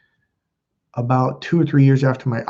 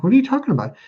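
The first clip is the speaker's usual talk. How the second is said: baffled question; 11 semitones higher, much faster than usual. Retold or imitated. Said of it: "I'm like".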